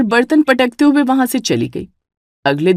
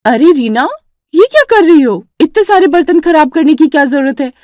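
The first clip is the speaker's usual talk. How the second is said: higher, bossy sister-in-law voice; lightly raised scolding tone; elder sister-in-law; 4 semitones higher than usual. Acted. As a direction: boss the young bride around. Jethani Vimla voiced in story.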